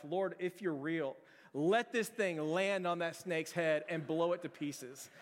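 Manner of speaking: slow, earnest plea to God; deliberate, pleading prayer; desperate prayer. Retold or imitated. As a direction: pray it slowly like your life depends on it. Desperate prayer before throwing rock.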